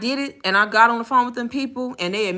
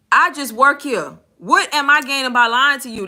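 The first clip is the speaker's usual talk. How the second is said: fed up; 3 semitones higher, 3 dB louder than usual. Retold or imitated. Agent to a customer calling her a liar, fed up. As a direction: replay a worker who has had enough. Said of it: "I can hear it in my voice, like, I don't give a shit".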